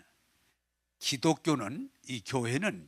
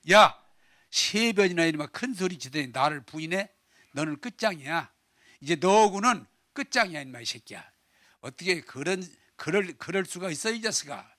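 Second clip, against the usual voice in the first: mock scolding. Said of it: "그게 일반적인 대답인데".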